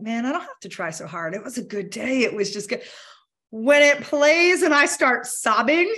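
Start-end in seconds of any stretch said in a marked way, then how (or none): 0.0-2.8 content smile. Retold or imitated. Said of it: "It'll play and I just smile".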